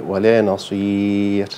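"نصير" ending in a breathy, voiceless ra; whispered final ra. Shown as a demonstration. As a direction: let the ra of "نصير" come out as a whisper. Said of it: "فكده يبقى فيه همس". (خطأ: راء مهموسة في آخر "نصير")

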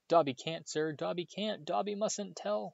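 very high, slow elf squeal. A narrator's reading. Panicked elf refuses Harry, high squeal. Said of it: "squealed the elf".

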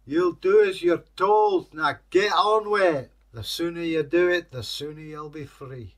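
loud, high, stern order; bossy captor. A narrator's reading. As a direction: order the creature back to work, loudly. Master orders the captive Kelpie about.

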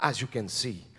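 very low, hushed superhero voice; Batman. Acted. Superhero baffled by a bomb of wine and cheese, deep hushed voice. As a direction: keep it deep, soft and deadly serious. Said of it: "and he said".

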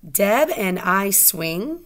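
"Deb and I swing" said as a question, lifting at the end; question intonation. Shown as a demonstration. Teacher tests a question mark on the sentence, questioning. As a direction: rise up on "swing" as if asking. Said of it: "Let's try the question mark".

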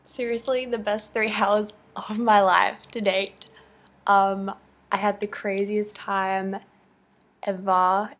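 talking with a mouth full; words around a mouthful of cereal; eating cereal. Real, not acted. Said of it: "sorry I'm eating cereal".

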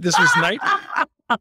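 laughing high and slow through words. Real, not acted. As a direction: break into a giggle mid-word. Interviewer laughing mid-question.

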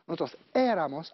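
éramos with the stress on the first E; teacher marking the accent. Shown as a demonstration. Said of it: "acento en la E".

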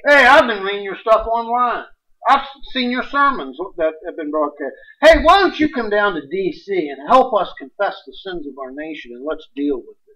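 a light take on the president inviting him; imitating Trump. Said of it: "President Trump would call me to say".

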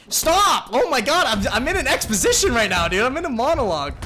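loud, high laughing yell; laughing shout. Real, not acted.

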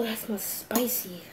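hushed, slow whisper. Real, not acted. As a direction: whisper it under your breath. Whispering over the hot noodles.

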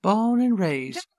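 loud, high, drawn-out Southern drawl; hammed-up Southern accent. Co-host defying a request for his normal voice, hammed-up Southern accent. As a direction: belt it out in a mock Southern accent. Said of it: "you do not need to read this in any sort of accent".

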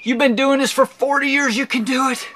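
high-pitched urging; pleading pep talk. Retold or imitated. Man coaxing his stubborn pinky, urgent pep talk.

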